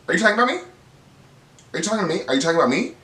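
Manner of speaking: mock confrontation. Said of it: "Brittany goes".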